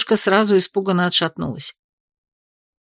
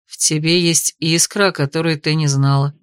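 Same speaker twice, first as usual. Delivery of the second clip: patient; 3 semitones lower than usual. Acted. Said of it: "терпеливо проговорил Ник".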